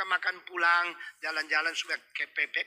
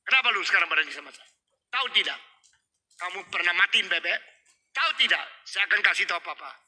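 confronting sibling; 4 dB louder, faster than usual. Acted. Older sibling confronting the younger.

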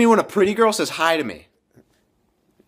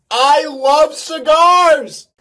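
slow, higher, louder choked-out line; strained after coughing; 7 semitones higher, 7 dB louder, much slower than usual. Acted. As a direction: fake it through the cough. Coughing after smoking a cigar.

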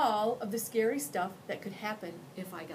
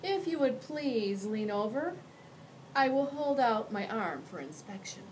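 higher, courteous monster under the bed; a well-mannered creature offering its arm; polite monster voice; 5 semitones higher than usual. Acted.

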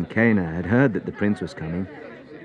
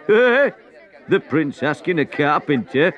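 higher, slow scornful chuckle; mocking laugh; 10 semitones higher, 6 dB louder, slower than usual. Crowd member jeering at the prince, laughing. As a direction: laugh it off in disbelief.

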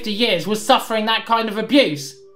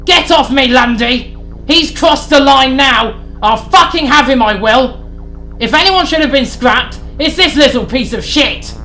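much higher, louder furious screech; screeching rage; 6 semitones higher, 4 dB louder than usual. Acted. Sid screams while Lundy holds him. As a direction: fight against being held back. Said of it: "Sid screeched".

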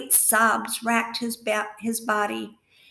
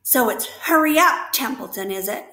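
mimicking Wilbur; 3 semitones higher, 6 dB louder than usual. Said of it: "imitating Wilbur's voice".

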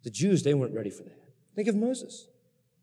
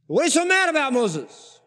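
mock-incredulous question; 12 semitones higher, 5 dB louder than usual. Preacher voices the people questioning Moses.

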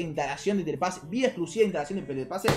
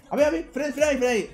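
raised-pitch, hurried mock command to stop; imitated police order; 6 semitones higher, faster than usual. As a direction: act out an officer halting a driver. Acted policeman ordering him to stop.

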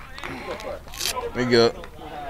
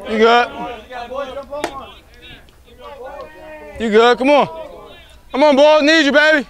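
cheering; 10 semitones higher than usual. Real, not acted. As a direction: keep yelling encouragement. Dugout cheering.

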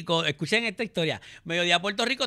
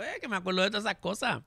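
mock self-quote; 9 dB quieter, faster than usual. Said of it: "Y yo".

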